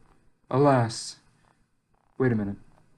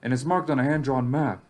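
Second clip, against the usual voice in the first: measured first-person journal monologue; in-character story narration. Acted. Lone amnesiac survivor weighing clues about the relay station, measured narration. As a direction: think the mystery through aloud, evenly.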